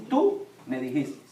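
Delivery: low, slow imitated comeback; blunt retort. Young son answering his father back, blunt imitated retort. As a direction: deliver it as a child's direct, deadpan accusation. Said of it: "Esteban es directo".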